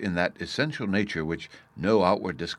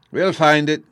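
put-on high, loud, eager child's cry; 8 semitones higher, 11 dB louder than usual. A narrator's reading. Bruno drags the professor away, crying out eagerly. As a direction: cry out eagerly like a small boy. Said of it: "cried Bruno eagerly".

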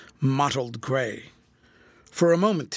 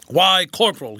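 loud, raised exclamation; surprised greeting; 4 semitones higher, 8 dB louder than usual. A narrator's reading. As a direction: greet an unexpected old comrade. General greets the corporal.

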